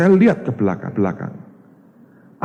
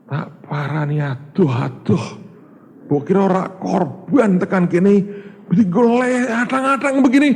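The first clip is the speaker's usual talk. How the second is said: rising higher, half-mocking inner grumble; inner exasperation; 5 semitones higher than usual. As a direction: grumble to yourself, getting higher. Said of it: "Dalam hati saya bilang". (gerutu dalam hati, makin tinggi)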